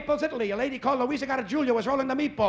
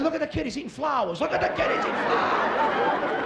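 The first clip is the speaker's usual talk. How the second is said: higher taunting schoolyard chant; mocking schoolkids; 5 semitones higher than usual. Schoolkids mocking the boy's sandwich, higher taunting. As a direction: taunt the new kid, sing-song.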